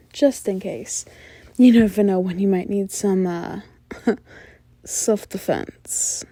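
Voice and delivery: teasing, coy femme fatale with playful lilts and pauses; flirty mysterious informant. Acted. Informant coyly asking the detective out on a date, flirty and teasing. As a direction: draw out the flirtation, with sighs and little laughs.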